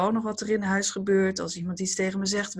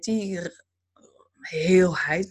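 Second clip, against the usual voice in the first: whisper; much slower than usual. Real, not acted. Whispered key word.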